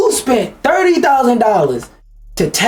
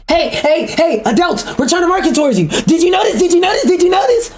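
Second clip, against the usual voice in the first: high, rising, attention-begging mock voice; much higher whiny ad voice begging adults; needy marketer mock; 8 semitones higher, faster than usual. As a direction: plead like a puppy for notice. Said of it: "that shit felt like".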